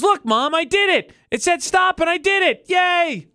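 high, gleeful show-off voice; mock a kid proudly showing off to mom; childlike boasting. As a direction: crow it with high, silly triumph. Acted quote of proud bad parker.

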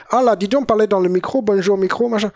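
lightly put-on chatter into a microphone; mock sketch patter. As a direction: toss off a mocking bit of patter. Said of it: "un mec tout seul sur Internet qui fait".

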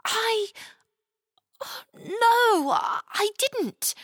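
put-on high, tearful girl voice; ashamed confession. Chloe confessing to the knight, ashamed and tearful. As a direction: confess it ashamed, near tears. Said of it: "Chloe confessed, ashamed".

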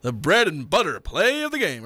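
announcer call of the catchphrase; radio voice. Shown as a demonstration. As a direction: punch it like a play-by-play man. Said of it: "Have to do my radio voice".

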